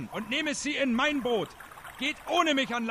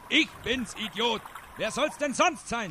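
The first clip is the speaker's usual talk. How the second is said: disguised voice. Acted. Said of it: "Erwiderte der Schelm mit verstellter Stimme".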